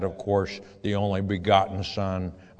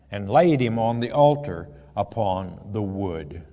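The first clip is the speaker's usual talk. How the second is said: raised, measured Bible reading voice; scripture reading; 2 semitones higher than usual. Acted. Preacher reading Genesis aloud to his flock, solemn reading voice. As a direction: read the verse out to the congregation. Reads binding of Isaac.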